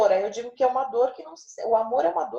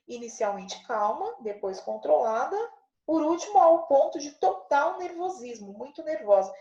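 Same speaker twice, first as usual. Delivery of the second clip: building from calm to nervous; 3 semitones higher than usual. Shown as a demonstration. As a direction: let the tension rise step by step. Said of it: "ordem crescente das ideias".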